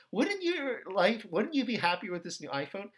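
smooth advertising pitch; smooth talk. Acted. Advertisement pitching a new iPhone, smooth-talking. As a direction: sweet-talk the buyer with a leading question. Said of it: "ask these questions in these smooth ways".

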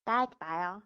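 slurred, mouth numb from anesthesia; mushy protest through a numb mouth; numb mouth slurring. Real, not acted. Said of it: "제가 따라해볼까요?".

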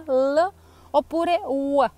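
L pronunciata con la lingua tra i denti, poi U; L then U. Shown as a demonstration. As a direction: due pronunce della L: L netta, poi U. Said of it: "come se doveste mordere la punta della lingua". (la L e poi la U, scandite lentamente)

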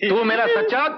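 high, exclaiming, overjoyed; delighted praise. Acted. Master rewards servant for good news, delighted. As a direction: praise him in a high, elated voice.

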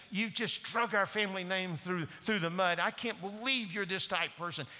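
a father's angry outburst at his pregnant daughter. Retold or imitated. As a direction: play the furious dad scolding his daughter. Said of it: "And in his anger".

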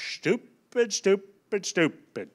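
mock-taunting stupid three times, rising then falling; a kid defying his dad, word by word; defiant child taunt. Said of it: "and he'll go".

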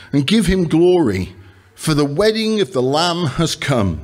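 emphatic Bible reading in measured phrases; deliberate, declamatory reading to a congregation; scripture reading. Acted. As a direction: proclaim the verses, pausing after each phrase. Reads scripture aloud to congregation.

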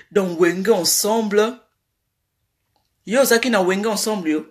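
slow, low imitation of his French accent; mock French accent. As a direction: drag it out in an affected French accent. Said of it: "moi, accent changea".

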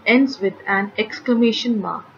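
usual speaking voice

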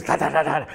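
rapid rattle noise, da-da-da; imitated rattling. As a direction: imitate something rattling along a car. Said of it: "you hear this".

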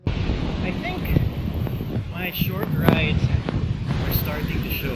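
straining through leg cramps. Real, not acted. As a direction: talk while legs cramp. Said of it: "My legs are about to cramp".

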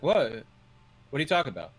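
loud baffled what; confused crowd. Acted. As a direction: sound baffled and alarmed. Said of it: "everybody looks around and is like".

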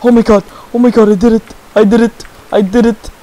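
breathless giddy celebration; excited cheering. Real, not acted. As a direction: celebrate a big win. First kill celebration.

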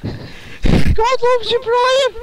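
high, loud, slow preacher cry; high shouted catchphrase. Acted. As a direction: drag it out like a street preacher. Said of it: "Do it again!".

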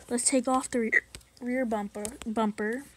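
hiccuping mid-sentence; suppressing hiccups. Real, not acted. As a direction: talk through hiccups. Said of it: "Sorry, I have hiccups".

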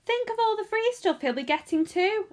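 put-on high, loud envious boy. A narrator's reading. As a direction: exclaim it with jealous indignation. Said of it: "another boy said enviously".

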